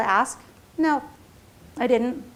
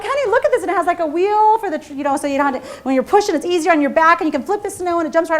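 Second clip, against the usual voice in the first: much higher and louder, gushing; excited pitch; 5 semitones higher, 3 dB louder than usual. Retold or imitated. Wife shows husband the shovel picture, gushing excitement. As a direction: sell him the gadget with bubbling excitement. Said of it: "'cause I'm so excited".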